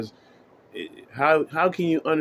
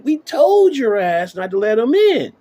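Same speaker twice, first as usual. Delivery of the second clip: mock yell; 9 semitones higher, 6 dB louder than usual. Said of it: "Everybody gonna be like".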